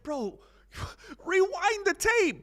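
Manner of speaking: high, slow and laughing; laughing quote. Retold or imitated. Paddy quoted to viewers, laughing. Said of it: "He's like".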